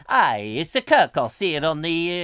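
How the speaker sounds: lightly put-on Italian accent with swooping pitch; a hint of hammy Italian accent; mock Italian. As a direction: play a comic Italian starship captain. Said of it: "is that the Italian version".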